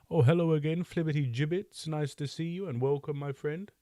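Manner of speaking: high, unfamiliar, offhand voice that keeps dropping in volume; a mechanical voice talking at nobody in particular; phonograph voice. A narrator's reading. The trumpet box talks to Kim in a high, offhand voice. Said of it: "in a high, uninterested voice".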